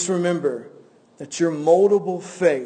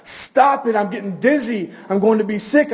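mild storyteller's scream, high on the first words; half-hearted dizzy cry of protest; mock scream; 4 semitones higher than usual. Spinning clay begging the potter to stop, mock scream. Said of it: "I screamed".

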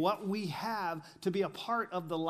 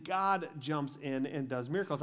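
ordinary delivery

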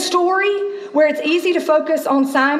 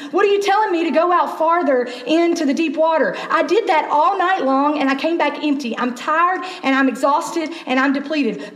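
exasperated Simon; 2 semitones higher than usual. Acted. Tired Simon talking back to Jesus, mildly exasperated. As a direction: grumble like a worn-out fisherman being bossed about. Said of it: "if Simon's anything like me".

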